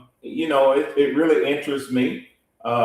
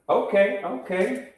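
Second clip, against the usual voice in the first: tunnel echo; 7 semitones higher than usual. Real, not acted. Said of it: "Sound like you in the garage".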